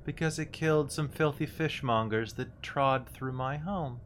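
put-on a threatening old hag voice.

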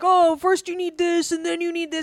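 high, indignant mock rant; scoffing at Maslow, mock outrage. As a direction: huff at being told what you need. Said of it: "Fuck you".

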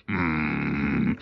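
long, low pondering hum; mock-serious hum. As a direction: hum gravely like a hero deep in thought. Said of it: "gets this really serious look".

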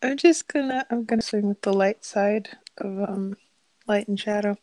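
put-on sweet baby-talk uwu voice. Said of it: "I fucking love when you bring out the uwu voice".

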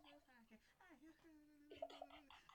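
high, slow mock host intro; podcast intro voice. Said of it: "I'll hear her talking about".

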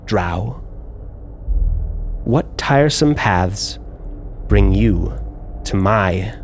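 a hint of a teasing drow lady; lightly voiced smirking drow. Drow noblewoman teasing the disguised player, lightly voiced smirk. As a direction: smirk through the question.

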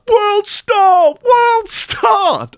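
high, loud yelled chant; shouting crowd. Retold or imitated. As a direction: yell it from the back of the crowd. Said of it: "Someone at the back shouts".

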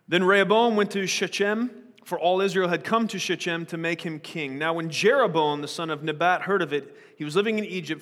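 measured Bible reading aloud; scripture reading. Acted. Pastor reading Kings aloud to the church, measured. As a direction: read the passage to the congregation.

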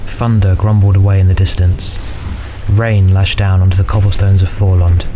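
measured fantasy audiobook narration; story narration. A narrator's reading. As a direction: narrate a dark fantasy tale evenly.

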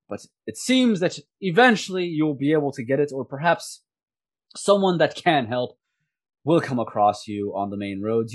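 lightly voiced courteous soldier; apologetic soldier. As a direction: politely turn them down, with a hint of regret. Game master voices apologetic soldier.

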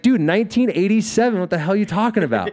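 high, loud, fast mock outrage to sell the lie; insistent bluff. To the bouncer, faking an ID birth year, in high loud mock outrage. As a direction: bluster like you totally believe it. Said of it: "So I committed".

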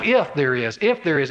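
"if" leaned on, doubtful; stress on if. Shown as a demonstration. Preacher showing Paul's doubtful "if", stressing the word. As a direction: hang on the word "if". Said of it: "He keeps using "if".

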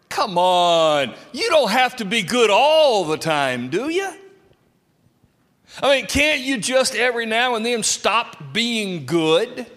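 loud, badgering peer pressure; a loud, pressuring tempter's voice; pushy tempter. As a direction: shout them down with the taunt. Voicing a tempter pressuring the listener.

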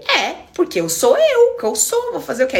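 high, slowed, cheeky shrug of a reply; playful retort. Retold or imitated. Answering her stepfather teasingly, high cheeky shrug. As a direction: toss it back with a grin in the voice.

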